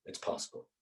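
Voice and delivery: hushed, breathless whisper; whispered aside. Real, not acted. Storyteller confides to the audience, whispered. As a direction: let it hang as a secret.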